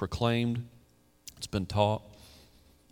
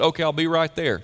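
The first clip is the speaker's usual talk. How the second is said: tossed-off breezy answer, louder; joking casual reply; 6 semitones higher, 5 dB louder than usual. Retold or imitated. Preacher jokes about Jesus with a breezy reply. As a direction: play it as a light gag. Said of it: "and Jesus said".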